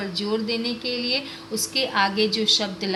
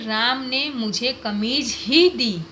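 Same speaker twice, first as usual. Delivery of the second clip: "कमीज़ ही" pushed forward to mean only the shirt; weight on "कमीज़ ही", nothing else was given; stress on कमीज़ ही. Shown as a demonstration. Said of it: "और कुछ नहीं दिया". ("कमीज़ ही" पर ज़ोर)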